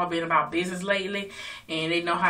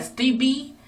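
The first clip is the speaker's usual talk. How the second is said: mock pleading; 8 semitones higher, 4 dB louder than usual. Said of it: "she be like".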